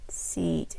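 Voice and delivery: seat with stretched ee; seat, drawn-out "ee"; long vowel. Shown as a demonstration. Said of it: "I stretch more".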